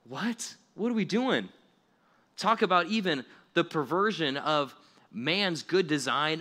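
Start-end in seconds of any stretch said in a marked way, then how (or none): 0.1-1.5 high, rising outrage; exasperated disbelief. Real, not acted. Preacher to youth group, outraged at schools, high and exasperated. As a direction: throw up your hands vocally. Incredulous reaction.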